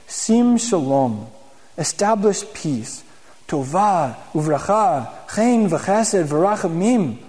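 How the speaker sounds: Hebrew prayer read slowly, word by word; reading a loved prayer aloud, slow and reverent. Shown as a demonstration. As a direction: savour each Hebrew word of the blessing. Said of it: "I'm gonna read it to you in Hebrew".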